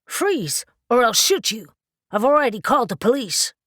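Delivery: shouted high and loud at an intruder; alarmed shout. A narrator's reading. Harlan threatening a burglar in the dark, shouting. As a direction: yell the warning, fast and scared.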